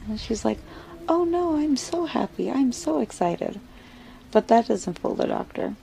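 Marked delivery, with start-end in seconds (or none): 1.1-3.6 high, bright fake excitement; forced cheer. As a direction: overdo the happy act to hide it. Wife faking happiness to doctor.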